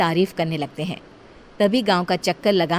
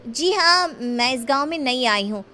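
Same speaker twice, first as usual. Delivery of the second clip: put-on higher, curious young girl asking; a girl pleading innocently with her elder; 5 semitones higher than usual. Young Shakti questioning her guardian, curious and high.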